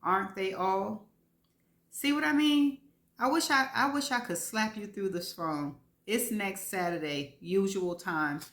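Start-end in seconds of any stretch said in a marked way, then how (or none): 1.9-5.8 higher, louder mock exasperation; exasperated. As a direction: throw up your hands. Exasperated sister teasing.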